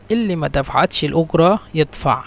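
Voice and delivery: উজরা said "ogra", with a hard g; jim as g. Shown as a demonstration. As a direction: harden the j of উজরা into g. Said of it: "এখানে জিমকে গয়ন".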